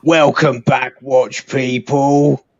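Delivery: slow stretched streamer greeting; streamer greeting impression. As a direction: drag out the welcome. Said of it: "interesting characters in our Watch community".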